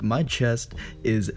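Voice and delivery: slow, breathless whisper. Retold or imitated. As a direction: whisper it weakly, slowly. Retelling his pain to mom.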